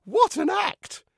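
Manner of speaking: high, loud, drawn-out exclamation; impressed. Acted. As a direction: stretch it out in loud admiration. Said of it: "I said, impressed".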